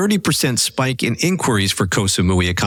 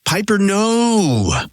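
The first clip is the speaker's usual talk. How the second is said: put-on drawn-out, higher Southern-accented cry, slow; 7 semitones higher, much slower than usual. Host quoting the show's rally cry in a Southern accent. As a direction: wail it in a Southern accent like an exasperated mom. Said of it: "heard round the timeline in a Southern accent".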